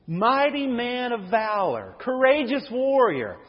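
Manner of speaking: slow, drawn-out ironic title; 1 wry mock title. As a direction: say it slowly, savoring the irony. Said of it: "That's funny to me".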